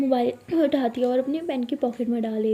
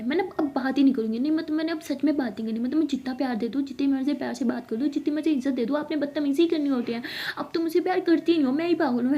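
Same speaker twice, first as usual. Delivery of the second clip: sulky drama; 3 semitones higher, faster than usual. Acted. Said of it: "drama start है ना".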